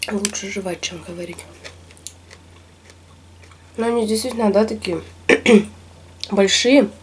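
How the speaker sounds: talking through sushi; muffled chewing speech; mouth full, chewing. Real, not acted. Seen 3: Sushi pieces bitten and chewed throughout; cheeks full while speaking.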